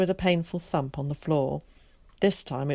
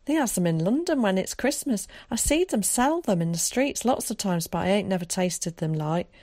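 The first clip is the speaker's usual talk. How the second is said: higher, lightly voiced eager child; excited country boy; 4 semitones higher than usual. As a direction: gush about it like a wide-eyed boy. Voices Willie, a story figure.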